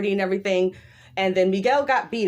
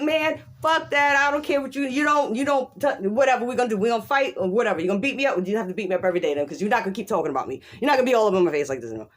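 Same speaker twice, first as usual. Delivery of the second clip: defiant stand; faster than usual. Retold or imitated. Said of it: "you're supposed to be like".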